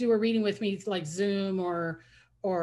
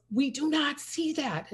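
slow, higher, every word spelled out; mock insistent friend, slowed down; emphatic insistence; 7 semitones higher, slower than usual. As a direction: imitate the friend laying it down flatly.

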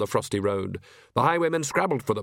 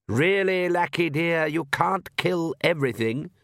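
indulgent mother; 5 semitones higher, slower than usual. Acted. Countess chiding.

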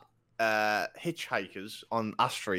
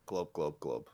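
low gurgling glubs like a whale; whale speak; 10 semitones lower, 7 dB quieter, slower than usual. Pretend. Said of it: "Can you speak whale?".

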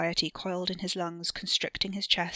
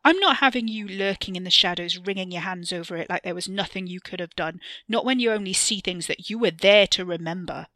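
loud contemptuous sneer; 7 dB louder than usual. Acted. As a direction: spit the scorn out loudly. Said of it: "with a sneer".

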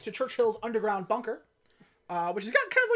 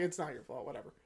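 shrugging Bond; 6 semitones lower, 10 dB quieter, faster than usual. Retold or imitated. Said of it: "he's also just like".

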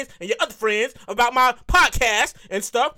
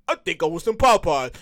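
inner fat man; 8 semitones lower than usual. Retold or imitated. His inner fat man craving Popeyes, low and coaxing. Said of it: "my inner fat man was like".

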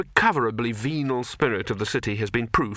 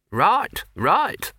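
eager neighbour; 8 semitones higher, 4 dB louder than usual. Acted. Her neighbour agrees.

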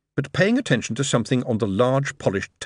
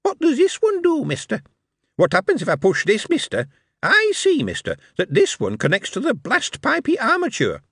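high-pitched, louder little goblin questioner; tiny staccato voices; 13 semitones higher, 3 dB louder than usual. A narrator's reading. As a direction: fire questions like a tiny, inquisitive creature. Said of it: "Harry heard tiny staccato voices interrogating".

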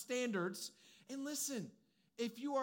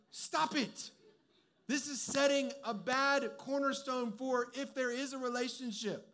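friends warning; 4 semitones higher, 4 dB louder, slower than usual. Retold or imitated. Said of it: "They're like".

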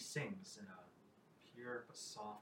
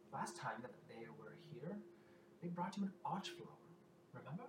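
lightly voiced storyteller minstrel, higher pitch; minstrel figure; 4 semitones higher than usual. Minstrel reminds the queen of the archflower, lightly voiced. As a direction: coax the listener with a tale.

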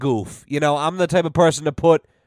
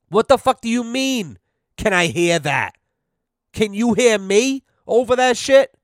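mock outrage; 6 semitones higher than usual. Retold outburst at call center.

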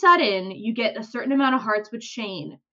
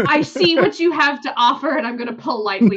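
laughing refusal; 6 dB louder than usual. Retold or imitated. Retelling turning down a suitor.

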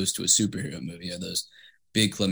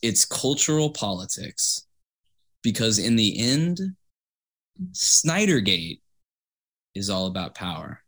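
grand speech to a crowd. Shown as a demonstration. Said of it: "final statement to them".

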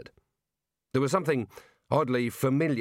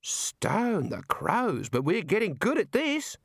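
drawn-out start, climbing much higher; amazed wizard; 8 semitones higher, slower than usual. Acted. A wizard marvels at their own summoning, amazed. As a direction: marvel slowly, then let the pitch leap up.

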